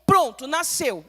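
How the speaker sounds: ordinary talk, nothing marked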